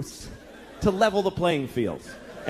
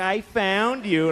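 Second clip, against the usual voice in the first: put-on smug child; 3 semitones higher, much slower than usual. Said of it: "She's, like, shitty about it".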